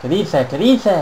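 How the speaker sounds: second repeat leaps high; excited disbelief. Real, not acted. Gamer reacting to a wrestling move, excited disbelief. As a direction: exclaim it twice, rising sharply.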